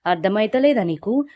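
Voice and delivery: possessed woman yelling at her sister to come along; wild shouting. Retold or imitated. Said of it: "గట్టి గట్టిగా అరుచుకుంటూ".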